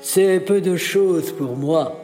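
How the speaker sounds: proud. Acted. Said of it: "répondit fièrement le magicien".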